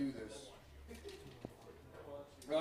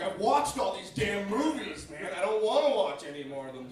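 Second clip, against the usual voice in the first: exasperated complaint; 5 semitones higher, 6 dB louder than usual. Acted. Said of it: "you're like".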